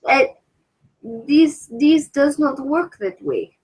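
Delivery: put-on slow, halting Russian accent. Answers in attempted Russian accent.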